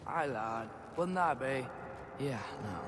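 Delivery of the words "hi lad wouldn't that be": a failed hint of a Scottish accent on "lad"; Scottish accent attempt. Player giving up on Mimir's Scottish accent, badly faked. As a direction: try Mimir's Scottish lilt and drop it. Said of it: "I can't do your accent".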